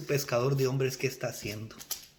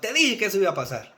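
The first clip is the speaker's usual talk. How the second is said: louder, higher mimicked reproach; mock I-told-you-so; 4 semitones higher, 5 dB louder than usual. Believers chiding a fellow brother, mock reproach. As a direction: rub it in, half in jest.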